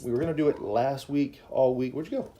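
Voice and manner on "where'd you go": playful calling. Real, not acted. Parent looks for child on camera.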